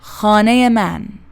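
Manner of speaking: "Khane man" with every syllable equally long; flowing, syllable-timed "Khane man"; even syllable timing. Shown as a demonstration. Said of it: "All syllables have nearly equal length".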